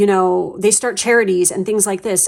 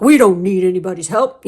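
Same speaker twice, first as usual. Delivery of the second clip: proud family voice; 5 dB louder than usual. Retold or imitated. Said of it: "a family who's like".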